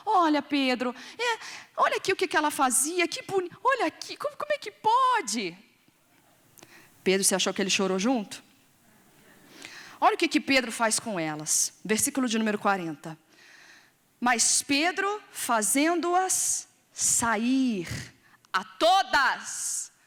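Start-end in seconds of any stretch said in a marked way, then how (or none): 0.1-5.6 high, rising pleading widow voice; lightly weep out the widows' plea; tearful widows. Retold or imitated. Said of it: "essas viúvas que vieram chorando". 14.2-19.9 drawn-out, word by word reading; slow it right down for weight; very slow emphasis. Real, not acted. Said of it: "presta atenção aqui em mim".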